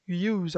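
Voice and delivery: "use" starting with a "you" sound; pronunciation of "use". Shown as a demonstration. Teacher explaining the English u, "use" begun like "you". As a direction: say "use" as "yooz". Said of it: "A pronúncia fica use".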